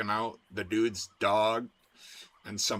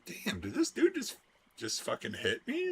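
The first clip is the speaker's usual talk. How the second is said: dazed kangaroo; 11 semitones higher than usual. Retold or imitated. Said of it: "that kangaroo is like".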